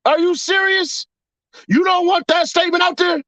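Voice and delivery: 말도 안 된다는 듯이; incredulous. Real, not acted. Incredulous rant at audience.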